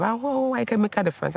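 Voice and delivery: lightly lifted, eager self-encouragement; excited self-talk. Retold or imitated. Recalling telling herself she can help, mildly excited. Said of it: "I was saying that to myself".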